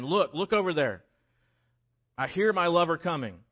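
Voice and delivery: excited bride. Acted. Excited bride at the door calls out as groom comes. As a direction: bride spotting her groom, calling out eagerly. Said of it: "She's excited to see him".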